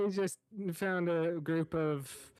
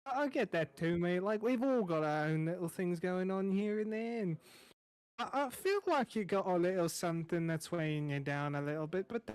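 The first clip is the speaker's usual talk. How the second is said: chatty chef. Acted. GM as chef reassuring the newcomer, friendly and rambling. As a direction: play the easygoing tavern cook.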